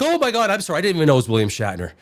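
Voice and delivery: mock-flustered, tumbling into a quick apology. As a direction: blurt an apology like a starstruck fan. Retelling bumping into a star.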